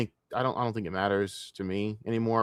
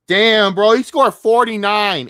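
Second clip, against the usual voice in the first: louder, higher, awed exclamation; real excitement about the game; amazed; 10 semitones higher, 11 dB louder, slower than usual. Real, not acted. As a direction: blown away by the score. Reacts to a basketball result.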